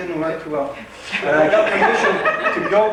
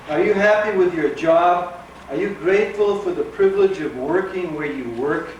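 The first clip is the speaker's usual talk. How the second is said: mock sales pitch, deadpan and deliberate; spirited blurb read. Author reading the book's blurb to the audience, spirited mock pitch. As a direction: read it like a back-cover advertisement. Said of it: "trying to get in the spirit".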